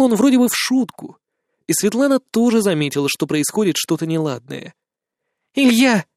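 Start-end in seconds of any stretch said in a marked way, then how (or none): 5.5-6.1 calling his name to soothe him; calm him down by name; woman gently calming a drunk friend; conciliatory. A narrator's reading. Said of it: "примирительно сказала она".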